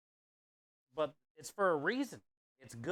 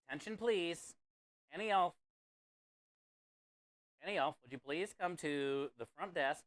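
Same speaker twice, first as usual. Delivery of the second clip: flat echoey pa page; 2 semitones higher than usual. Pretend. Mock PA announcement paging viewer.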